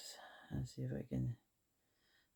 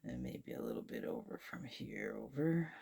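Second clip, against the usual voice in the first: whisper; 5 semitones lower, 8 dB quieter than usual. Real, not acted. Whispers while concentrating.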